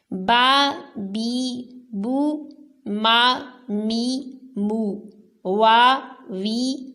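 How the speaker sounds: با بی بو through یا یی یو, short crisp syllables; each syllable clean without stretching; teacher drilling letters with vowels. Shown as a demonstration. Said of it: "اسی طرح سے یہ سبق آپ نے سنانا ہے".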